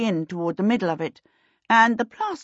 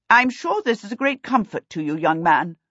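bitter; 4 semitones higher than usual. Acted. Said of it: "Princess Hilda said bitterly".

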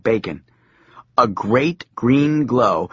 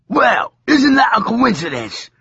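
demon voice; 11 semitones higher than usual. Acted. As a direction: sneer it like a demon. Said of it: "said the demon".

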